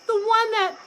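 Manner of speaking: high, loud weepy wail; sobbing mother crow; tearful. A narrator's reading. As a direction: wail about the lost eggs. Wife's tearful answer.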